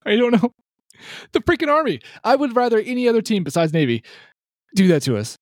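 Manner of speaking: very high-pitched exasperated whine; high, pained sports-fan griping; exasperated lament. Real, not acted. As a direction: wail it in disbelief, voice way up high. Wailing over loss to Army.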